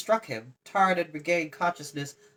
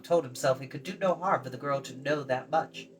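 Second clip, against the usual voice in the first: ordinary delivery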